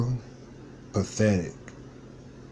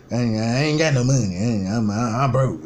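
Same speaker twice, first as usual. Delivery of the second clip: mock uncle; faster than usual. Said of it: "That's exactly how he talk too".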